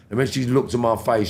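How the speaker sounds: ordinary talk, nothing marked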